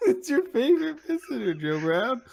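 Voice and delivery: high, cartoonish detective voice; squeaky Pikachu character. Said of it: "Detective Pikachu here".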